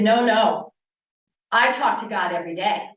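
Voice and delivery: loud, insistent correction; emphatic protest. Retold or imitated. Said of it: "I said".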